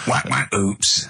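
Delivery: slow mock sound-effect catchphrase; deadpan spoof of radio sound effects; comedy sound effects. Shown as a demonstration. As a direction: say it as a clumsy effect. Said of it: "I can do sound effects".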